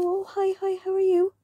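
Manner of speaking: high, chirpy retold hello; acted-out bubbly small talk; excited greeting. Retold greeting back to friend.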